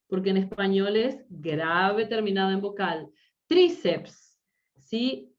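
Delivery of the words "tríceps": "Tríceps" with TRÍ high and strong, falling after; stress on the I. Shown as a demonstration. Teacher showing the tonic I, stressed high. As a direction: punch the first syllable of "Tríceps". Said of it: "Tiene la sílaba tónica en la I".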